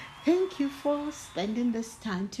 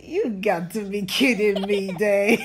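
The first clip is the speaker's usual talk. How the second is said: louder, amused reading with a laugh; 4 semitones lower, 5 dB louder than usual. Real, not acted. Storyteller amused reading to children. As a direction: let the laugh spill over.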